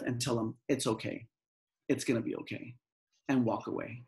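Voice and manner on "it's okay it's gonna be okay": calming self-talk. Shown as a demonstration. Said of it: "this is what I tell my students".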